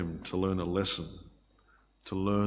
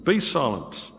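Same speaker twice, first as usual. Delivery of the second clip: mildly voiced rebuke; retold rebuke; 3 semitones higher than usual. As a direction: lightly imitate a reprimand. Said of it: "rebuking them".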